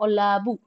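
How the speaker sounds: ଅଲାବୁ with the weight on ଲା, not ଅ; stress on ଲା. Shown as a demonstration. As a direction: lean on the middle ଲା of ଅଲାବୁ. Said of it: "ଲ ଉପରେ ପ୍ରାଧାନ୍ୟ ଦଉଛନ୍ତି". (ଅଲାବୁର ଲା ଉପରେ ଜୋର)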